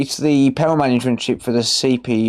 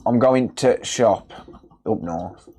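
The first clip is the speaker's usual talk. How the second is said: attempted northern accent; slower than usual. Shown as a demonstration. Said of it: "I can't do a northern accent".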